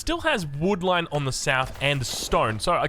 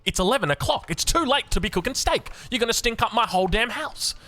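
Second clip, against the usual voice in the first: higher-pitched mock mum, telling him off; imitating scolding mum; 9 semitones higher than usual. Mum scolding her jet-lagged son for cooking, in a raised mock voice. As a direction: play the strict mum forbidding a late steak.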